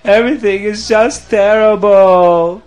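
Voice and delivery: voiced as a mildly crying, upset man; distraught lament. A narrator's reading. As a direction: panic about the coming disaster. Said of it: "and he's crying, and he's very upset".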